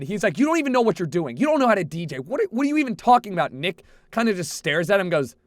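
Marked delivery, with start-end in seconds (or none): 0.4-3.5 quick mock-angry rant; half-hearted imitation of a mad DJ. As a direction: rattle it off like an annoyed DJ. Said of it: "The guy gets so mad".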